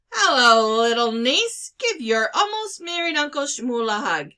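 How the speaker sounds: big, booming hello from a jolly uncle; hearty uncle. A narrator's reading. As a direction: greet the niece with loud, joyous cheer. Hearty uncle greets niece.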